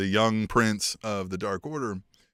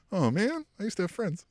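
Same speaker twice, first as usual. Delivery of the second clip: mock lament; 8 semitones higher, 4 dB quieter than usual. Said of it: "then he's like".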